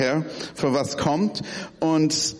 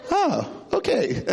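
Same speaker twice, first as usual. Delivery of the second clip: laughing; 3 semitones higher than usual. Real, not acted. Laughs at own story.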